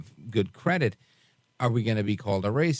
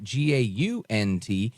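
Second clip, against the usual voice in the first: spelled out slowly; slower than usual. Shown as a demonstration. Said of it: "and that's Gant".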